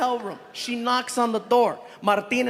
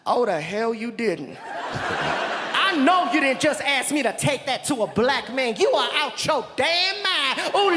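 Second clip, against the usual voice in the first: woman impression. Man doing a sassy woman on the phone to Kiki. Woman refusing the delivery, laughing.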